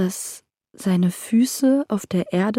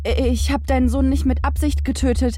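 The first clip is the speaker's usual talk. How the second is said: higher, desperate begging; desperate pleading; 6 semitones higher, faster than usual. Acted. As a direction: plead for mercy, almost crying out.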